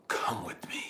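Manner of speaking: low, very soft storyteller's hush; hushed summons. Retold or imitated. A voice calls him out of the tent, hushed. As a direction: let a mysterious voice call quietly from the dark. Retells a mysterious voice calling him.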